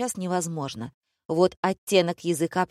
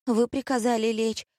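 put-on high, meek girlish excuse; making excuses; 6 semitones higher than usual. A narrator's reading. Maya excusing herself to the director, meekly. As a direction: justify yourself in a small high voice. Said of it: "оправдалась Майя".

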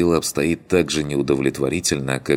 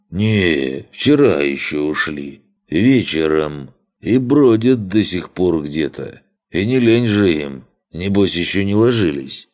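put-on drunk rambling voice; 3 semitones higher, 5 dB louder than usual. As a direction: ramble like a half-sober drunk. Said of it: "Почти трезво сумел сообщить Кью".

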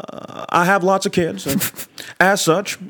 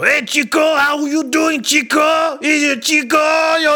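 shouted greeting; 8 semitones higher, slower than usual. Acted. Greeting a pal on the West Side, yelling high. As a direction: call out across the street.

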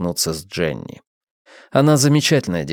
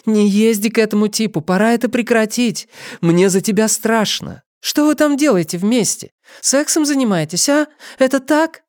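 pleading; 12 semitones higher than usual. Acted. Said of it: "взмолилась Нэнси".

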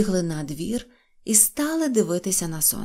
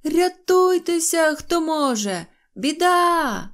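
high, louder panicked cry; shouting; 8 semitones higher, 4 dB louder, slower than usual. Acted. Neznayko crying out to all the little ones, high shout. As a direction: raise the alarm, stretch the first word. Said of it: "А Незнайко кричав".

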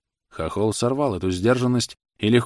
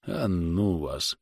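sullen; 2 semitones lower, 5 dB quieter, much slower than usual. A narrator's reading. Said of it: "Букин угрюмо".

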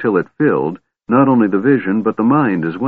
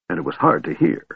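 huffy; 6 semitones higher than usual. A narrator's reading. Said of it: "Tass added huffily".

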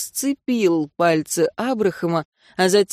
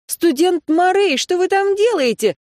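high, loud alarmed call up a tree; teacher shouting up at a student dangling from a treetop; shouted up; 11 semitones higher, 4 dB louder than usual. Acted. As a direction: call up to him, slowed and alarmed. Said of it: "крикнула".

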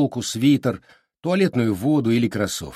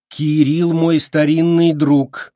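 slow, loud, word-by-word; rapped out coldly, stress on старинный; clipped out; 5 semitones higher, 7 dB louder, slower than usual. A narrator's reading. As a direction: hammer each word out. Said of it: "отчеканила Неда".

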